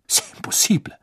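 French, breathy and unvoiced; French accent. Maxime's French.

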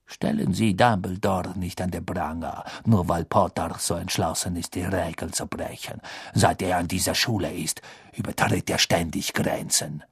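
low, soft and sneering; sly sinister man. Acted. Snape voiced.

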